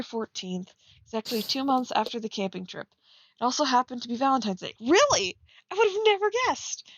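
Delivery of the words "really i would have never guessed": higher, sarcastic mock surprise. Real, not acted. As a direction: roll your eyes through it. Sarcastic reaction to obvious detail.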